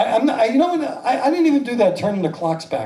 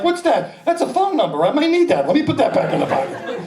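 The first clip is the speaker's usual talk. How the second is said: higher-pitched hurried self-questioning; fussing to himself; 5 semitones higher than usual. Acted. Man sorting his pocket junk, fussing to himself.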